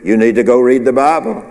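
lightly voiced prompting from the Holy Spirit; a clear urging, rising at the end. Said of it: "the Holy Spirit said to you".

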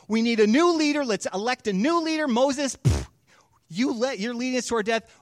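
rally the crowd against Moses; angry mob. Acted. Israelites turning on Moses, angry shouting. Mob demanding new leader.

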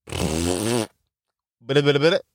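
stuck on a word; stammering on the word; stutter. Real, not acted. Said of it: "Sorry, I stuttered".

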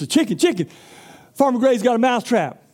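a little mouse raising the alarm; frantic mouse. Acted. Mouse warns the chicken.

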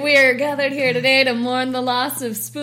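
lightly solemn funeral speech; a hint of a pastor mourning; mock solemn eulogy. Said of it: "It's like, like".

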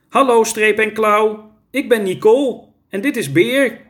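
put-on high little-child voice; small child greeting. A narrator's reading. Three-year-old Nicole greets the tigers, high child voice. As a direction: introduce yourself simply, high-pitched.

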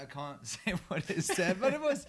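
laughing, voice climbing high and loud; real giggly, high-pitched protest; amused disclaimer. Real, not acted. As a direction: laugh through the words while backing off the detail. Laughing over an unrepeatable text.

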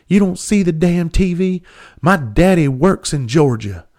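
high-pitched mock distress; hammed-up distraught whine; upset, crying kid. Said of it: "crying, and upset".

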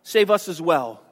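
a mild sneer at Jesus, pitched a bit up; sarcastic mocking. A preacher retells a dying thief mildly mocking Jesus. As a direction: taunt him lightly, as if he can't be the Christ. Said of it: "with his very sarcastic tone".

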